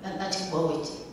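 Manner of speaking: usual speaking voice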